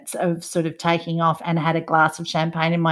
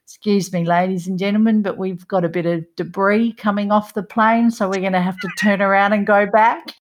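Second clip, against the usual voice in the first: a hint of an Australian captain on the PA; broad Australian accent; faster than usual. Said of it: "with his very Australian accent".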